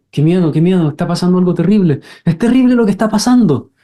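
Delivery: put-on a scared kid feeling danger, climbing in pitch; acted child panic.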